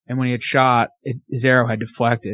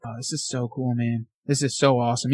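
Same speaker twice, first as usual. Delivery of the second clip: hushed awe; 3 semitones lower, 6 dB quieter than usual. Retold or imitated. Filming deer right underneath him.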